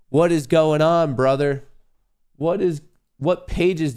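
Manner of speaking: high, loud what-is-going-on; high, loud exasperated cry; exasperated outburst. Real, not acted. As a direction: throw it out in disbelief. Computer frozen, exasperated.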